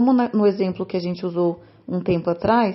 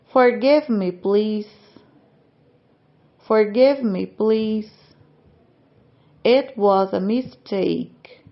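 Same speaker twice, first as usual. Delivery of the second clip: slow repeat-after-me reading; slower than usual. Shown as a demonstration. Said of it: "repitam cada frase em voz alta juntamente comigo".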